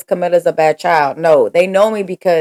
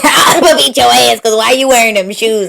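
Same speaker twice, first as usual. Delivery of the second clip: laughing; 4 semitones higher, 3 dB louder than usual. Pretend. Playful mock threat over outfit.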